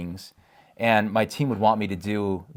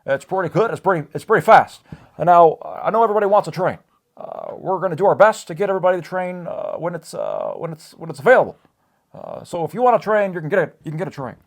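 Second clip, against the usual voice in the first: higher, louder presidential voice with long pauses; Obama impression; 8 semitones higher, 6 dB louder than usual. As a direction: do a self-admitted terrible Obama. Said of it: "is gonna be in Barack Obama's voice".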